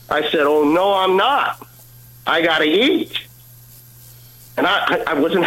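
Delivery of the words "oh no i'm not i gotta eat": retold protest, rising on key words; mildly indignant refusal, retold. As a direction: push back in a mock protest. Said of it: "you were at first protesting".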